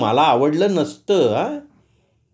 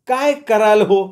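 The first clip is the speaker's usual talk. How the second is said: slow, higher mock threat through the door; threatening; 6 semitones higher, slower than usual. A narrator's reading. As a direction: dare him, drawing it out. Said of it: "तिने धमकावणीच्या सुरात". (धमकावणीच्या सुरात, हळू विचारलेला प्रश्न)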